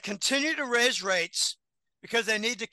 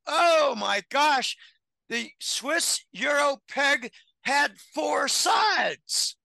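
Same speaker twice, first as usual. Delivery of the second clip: shocked exclamation; 4 semitones higher, much slower than usual. Retold or imitated. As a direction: gasp it out in disbelief. Retold realization, exclaimed.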